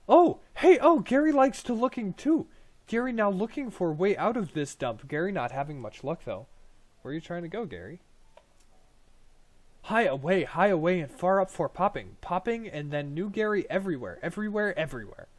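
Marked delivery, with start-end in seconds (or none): 0.1-6.5 high, loud goblin chatter; eager little goblin greeting a stranger; excited goblin Gary. Acted. 9.8-15.3 high, loud goblin chatter; eager little goblin greeting a stranger; excited goblin Gary. Acted.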